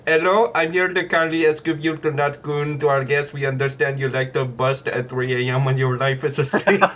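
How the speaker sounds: put-on lightly done Indian accent; a hint of an Indian accent, scam call parody. Scam caller parody to a friend, light Indian accent. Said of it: "so I can do the Indian accent".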